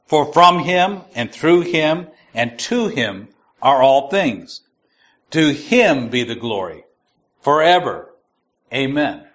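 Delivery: steady, solemn reading voice; scripture reading. Acted. Teacher reading Romans one aloud, measured and solemn. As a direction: let the verse carry weight.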